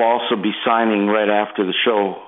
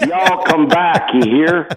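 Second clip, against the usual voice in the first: slow, higher, louder Southern drawl, hammed up; a slow Southern accent pitched up for a joke; mock Southern drawl; 6 semitones higher, 3 dB louder, slower than usual. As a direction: play the good ol' Southern host sending folks off. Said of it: "gotta get a little bit of that Southern drawl".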